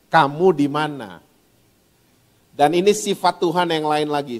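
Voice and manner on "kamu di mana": gentle, lower, slow asking; tender, unhurried call to the lost; gentle question. Retold or imitated. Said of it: "dia tanyanya baik-baik intonasinya".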